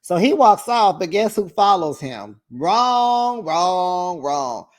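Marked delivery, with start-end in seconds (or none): 2.5-4.7 tsk wrong. Real, not acted. Scolding Brooks for following.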